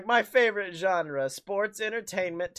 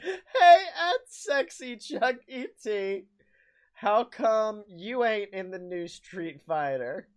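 laughing taunt; 3 semitones higher, slower than usual. Pretend.

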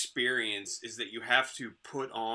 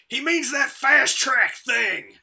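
high, loud imitation of a yelling wife; mock holler, drawn out slowly; retold yell; 11 semitones higher, 12 dB louder, slower than usual. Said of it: "she just yells".

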